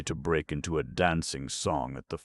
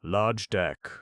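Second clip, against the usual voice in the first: shouted reply; 5 semitones higher, 5 dB louder than usual. Acted. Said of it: "one of the Poles shouted in reply".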